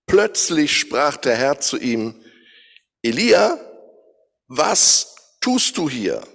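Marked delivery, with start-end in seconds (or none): 3.0-6.2 slow, solemn call to Elijah; the Lord calling Elijah by name, slow and solemn; voice of God. Acted. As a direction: speak as God, calling gently from far.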